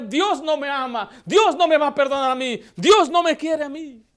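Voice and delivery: imitating a woman shouting as she walks away; retold shouting. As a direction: call it out down the street in despair. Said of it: "gritando todavía".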